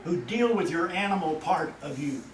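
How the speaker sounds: a stern God warning his people. Acted. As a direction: thunder God's threat from the pulpit. Voicing God's warning.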